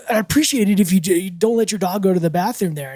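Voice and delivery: mildly irate, hurried objection; heated complaint. Retold or imitated. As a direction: play the annoyed neighbor storming out. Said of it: "already heated, and he's like".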